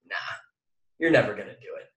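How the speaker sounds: the little voice that says you can't; inner doubting voice. Retold or imitated. Speaker voicing the doubting inner voice to the audience, low and soft. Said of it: "that little voice back here that goes".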